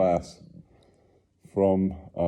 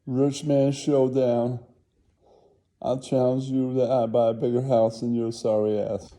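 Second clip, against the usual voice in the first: rich man showdown; 5 semitones higher than usual. Acted. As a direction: throw down the gauntlet. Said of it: "He's like".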